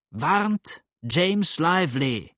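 high, slow drawn-out call; shouting out. A narrator's reading. Farmer being dragged away, slow high shouted plea. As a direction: cry a warning over distance. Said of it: "so laut er schreien konnte".

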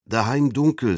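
high, trembling shaky voice. A narrator's reading. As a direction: let the voice tremble, frightened. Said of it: "verriet er mit zitternder Stimme".

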